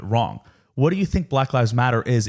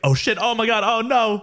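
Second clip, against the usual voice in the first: much higher, mock-panicked squeal; mortified panic; 11 semitones higher than usual. Imitating Burke realizing what he said, in a high panic. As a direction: play the sudden embarrassed realization. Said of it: "And he was like".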